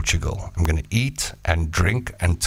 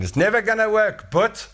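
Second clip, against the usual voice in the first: much higher scoffing caveman; high mocking skeptic's voice; doubting caveman; 12 semitones higher than usual. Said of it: "somebody's saying".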